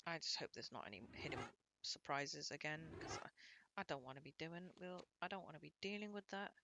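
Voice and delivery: soft hushed whisper. Real, not acted. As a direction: whisper it, wary. Sudden hushed commentary.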